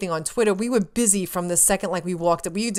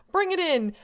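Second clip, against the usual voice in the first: hearty invitation; 10 semitones higher than usual. Retold or imitated. Voicing star inviting a hug.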